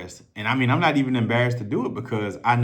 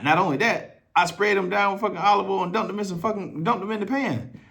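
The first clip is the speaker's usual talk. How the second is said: worked up; 10 semitones higher than usual. Real, not acted. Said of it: "That was the wrong answer".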